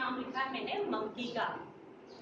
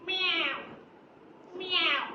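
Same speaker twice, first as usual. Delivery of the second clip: cat meow; 4 semitones higher than usual. Shown as a demonstration. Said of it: "cat कैसे करती है?".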